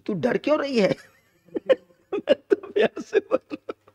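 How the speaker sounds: high, laughing imitation of a blunt husband; laughing mock husband. A light, laughing take on the husband telling his wife he speaks with love. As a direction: giggle through the blunt husband's line. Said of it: "ऐसी ठेठ भाषा में बोलता है".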